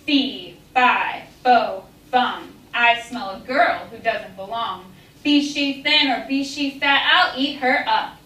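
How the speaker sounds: giant voice. Acted. Giant's chant in story.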